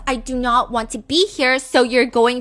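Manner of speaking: insistent, rising mock outrage; all-caps outburst. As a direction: act out her typed yelling. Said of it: "She writes in all caps".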